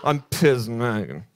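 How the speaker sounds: laughing. Retold or imitated. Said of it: "look at himself in the mirror every morning and say".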